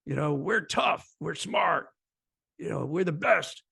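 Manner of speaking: lightly voiced swaggering big-city recruiter, boasting; a hint of a tough-guy sales pitch, hammed up; mock cocky recruiter. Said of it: "putting on an act".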